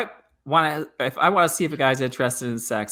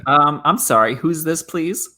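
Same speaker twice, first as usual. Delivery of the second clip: passive aggressive; slower than usual. Acted. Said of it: "like, passive aggressive".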